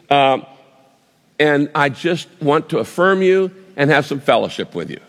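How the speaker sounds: lightly acted fond, fatherly affirmation; loving voice. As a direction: gently reassure someone you love, a little hesitant. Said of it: "says to you in a loving voice".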